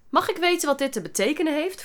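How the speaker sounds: frosty reprimand as a question; icy teacher. A narrator's reading. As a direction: demand an explanation coldly. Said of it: "Je kon bevriezen als je naar die stem luisterde".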